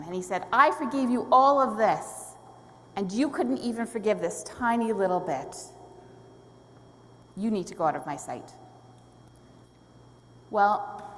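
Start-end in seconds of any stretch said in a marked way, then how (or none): 0.5-8.5 upset master. Retold or imitated. Master rebuking the unforgiving servant, mildly acted upset. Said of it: "he was very upset with him".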